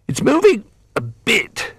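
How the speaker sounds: put-on high strained old bear. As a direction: puff out the words while turning.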